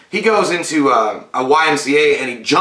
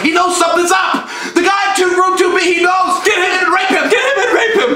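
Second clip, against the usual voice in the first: frantic creature shriek. Retold or imitated. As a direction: shriek the alarm like a tiny freaked-out creature. Gizmo's panicked alarm in retelling.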